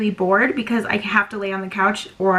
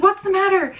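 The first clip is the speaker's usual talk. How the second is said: imitating concerned husband; 9 semitones higher than usual. Husband finds her bawling.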